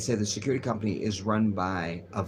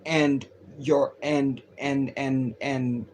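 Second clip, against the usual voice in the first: imitating the Palestinian woman. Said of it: "this is how she speaks".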